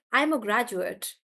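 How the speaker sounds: "graduate" as GRAD-ju-ut; weight on GRAD, weak ending in "graduate"; noun stress. Shown as a demonstration. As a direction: say "graduate" as the noun, short final vowel. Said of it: "I'm stressing on the first part".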